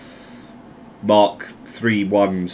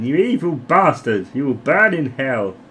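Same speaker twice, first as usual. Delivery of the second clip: mildly raised mock outrage; mock condemnation; 4 semitones higher than usual. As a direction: imitate an indignant believer damning him. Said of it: "Christians watching this now going".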